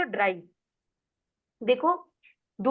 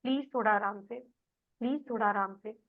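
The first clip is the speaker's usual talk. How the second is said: gentle request; 2 semitones lower, 4 dB quieter than usual. Shown as a demonstration. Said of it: "consistently उसको वो बात समझाते रहोगे".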